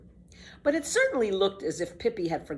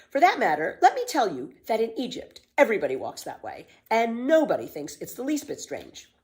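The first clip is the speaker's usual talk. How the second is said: put-on bold, bright-eyed girl, a bit louder; lively girl Pippi; 6 semitones higher, 4 dB louder than usual. Pippi defends walking backward to Tommy, cheeky girl voice.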